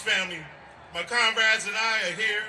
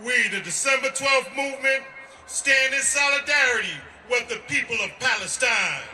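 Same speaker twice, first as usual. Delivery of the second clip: rally speech; 3 semitones higher, slower than usual. Real, not acted. Shouted rally statement.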